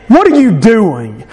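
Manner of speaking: mock him with a drawn-out question; slow, jeering question. Brothers to David as he comes asking, mocking. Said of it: "begin to mock him and say".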